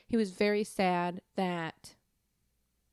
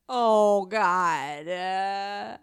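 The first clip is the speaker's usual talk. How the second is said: real tears breaking through, louder; choked-up real crying outburst; 11 dB louder, much slower than usual. Real, not acted. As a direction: overcome by emotion, voice cracking into real tears. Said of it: "You're crying".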